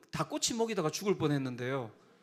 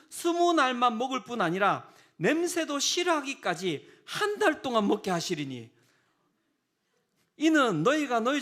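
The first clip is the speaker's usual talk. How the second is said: louder, higher declaiming of God's words; forceful scripture reading; 5 semitones higher, 5 dB louder than usual. Acted. Preacher reads God's angry reply to the people, loud and forceful. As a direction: proclaim it with rising force.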